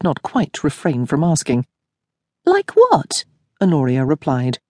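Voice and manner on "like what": surprised. Acted. Honoria's question.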